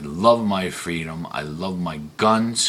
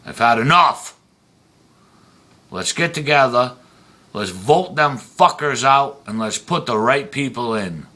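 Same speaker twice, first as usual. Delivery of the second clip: higher, louder rallying cry; angry call to action, pitched up and loud; fed-up rant; 3 semitones higher, 4 dB louder than usual. Real, not acted. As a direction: rouse the crowd to vote them out. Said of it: "I'm ranting and raving".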